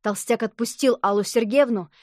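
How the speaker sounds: plain reading voice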